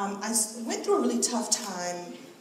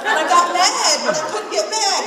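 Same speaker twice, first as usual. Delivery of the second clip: heated retelling; 8 semitones higher, 11 dB louder than usual. Retold or imitated. Retelling anger at the guard.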